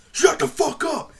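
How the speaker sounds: high, slow, drawn-out "shut the fuck up"; mock tough snarl. To Livingstone, daring him: slow high mock-tough snarl. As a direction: spit it out slow and high like a dare. Retold heated confrontation with Livingstone.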